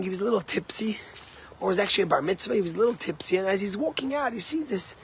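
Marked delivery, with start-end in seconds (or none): 0.0-1.0 a hushed, confiding aside; whispered aside. Retold or imitated. To the congregation about the tipsy donor, whispered. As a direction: whisper it like a secret.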